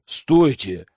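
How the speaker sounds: rising panic, high by the last question; desperate cry. A narrator's reading. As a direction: climb to a high, frantic squeal. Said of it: "отчаянно закричала ведьма".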